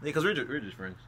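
hushed. Real, not acted. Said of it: "whispered walk-through before kiss".

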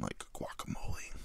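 whispering about shrimp tacos; dreamy whisper over food; hushed craving. Real, not acted. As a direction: breathe it out like a secret craving.

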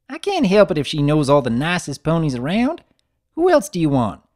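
put-on bright young filly defending her sister; lightly voiced filly. Apple Bloom teasing her brother, a lightly voiced eager filly.

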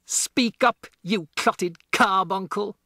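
high, loud insulting bellow; roaring. A narrator's reading. Headmistress insulting Matilda, loud high roar. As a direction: bark the insult across the room. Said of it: "roared the Trunchbull".

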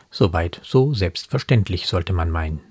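normal talking voice

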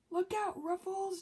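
loud sudden warning; exclaiming. A narrator's reading. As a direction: call out a warning. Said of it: "Joy exclaimed".

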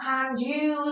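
"can you" with the final u held long; long vowel. Shown as a demonstration. Teacher gives learners the answer, long final vowel in "can you". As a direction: slowly stretch the end of "can you". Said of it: "nó sẽ có trường âm".

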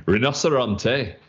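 hammed-up Italian accent, slow. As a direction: roll out Rinoceronte like an Italian. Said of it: "would you like it in my best, um, Italian accent".

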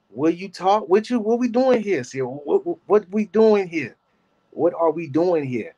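high, drawn-out disbelief; incredulous. Real, not acted. Streamer asking Sierra in high, slow disbelief. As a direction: ask it slowly, baffled.

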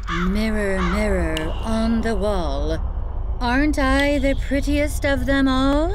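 a hint of a vain queen; evil queen. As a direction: demand flattery from the mirror. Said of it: "The evil queen walks over to her full-length mirror".

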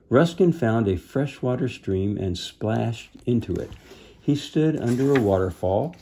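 measured storybook reading; deliberate, expressive storytelling; story narration. A narrator's reading. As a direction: read a children's adventure aloud. Reads storybook aloud.

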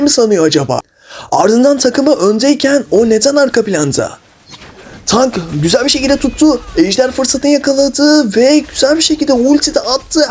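play-by-play caster, building to excited peaks; sportscaster commentary. Acted. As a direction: call the match like a TV sportscaster. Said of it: "spiker gibi konuşalım ya".

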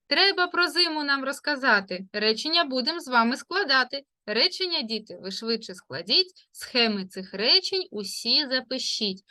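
quick sing-song verse; rhymed instruction. Acted. Teacher setting the sentence task in rhyme, sing-song. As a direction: chant the task as a little rhyme.

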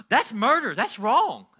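loud, high blurted condemnation; involuntary outburst. Retold or imitated. Newly saved worker to a friendly vendor, involuntary outburst. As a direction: blurt it out forcefully, as if it escaped you. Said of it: "it just came out of my mouth".

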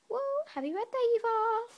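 high, loud birthday cheer; excited shout. Real, not acted. Kid shouting birthday wishes to Eva, high and loud. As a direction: cheer it out like a party greeting. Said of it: "Don't know why I'm doing that".

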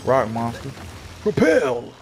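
hyped wrestling move calls, announcer style; mock wrestling announcer calling moves; move callouts. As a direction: bark out each move name like a fighter.

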